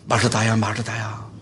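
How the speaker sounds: low, tender name call; gentle admonishing. Retold or imitated. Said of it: "혼을 내지 않고 타이르죠?".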